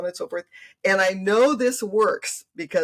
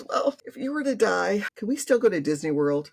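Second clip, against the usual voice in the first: little granddaughter; 4 semitones higher than usual. Retold or imitated. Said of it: "She goes".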